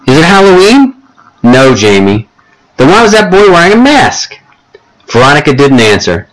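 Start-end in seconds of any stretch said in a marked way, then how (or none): 0.1-4.4 put-on high excited little-kid call; a small child grabbing attention, high; little boy calling. Jamie calling to his babysitter, high excited child.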